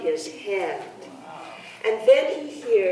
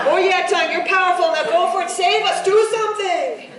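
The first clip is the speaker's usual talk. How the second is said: eager pleading; 7 semitones higher, faster than usual. A narrator's reading. Body parts hastily give in.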